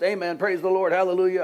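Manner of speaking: hammed-up church praise outburst; Baptocostal fit. Forgiven debtor rejoicing on his way home, mock shouting. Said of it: "having what I would call a Baptocostal fit".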